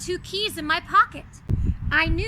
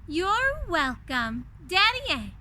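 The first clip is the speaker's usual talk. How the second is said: happily; 2 semitones higher, slower than usual. Acted. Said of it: "I replied happily".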